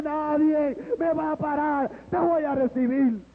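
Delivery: insistent, driving petition to God; impassioned prayer. Acted. Joey bargaining with God before the campaign, fervent praying challenge. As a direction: build a list in rhythmic preaching phrases. Retold prayer preached at full force.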